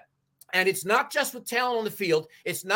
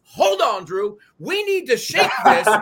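fired-up plea; rallying shout; 4 semitones higher than usual. Real, not acted. Pundit rouses listeners and fans, rallying shout.

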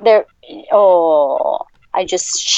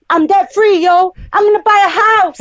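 excited; 8 semitones higher than usual. Real, not acted. Celebrating the paid debt.

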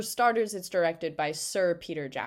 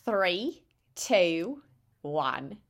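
put-on New Zealand accent; much slower than usual. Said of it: "Can I do it in a New Zealand accent?".

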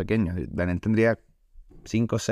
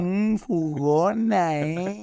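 teasing; 5 semitones higher, much slower than usual. Pretend. Teasing the friend's mother.

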